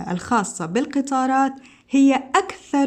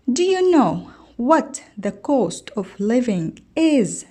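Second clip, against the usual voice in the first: slow textbook reading; much slower than usual. Shown as a demonstration. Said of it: "teacher reads textbook dialogue aloud".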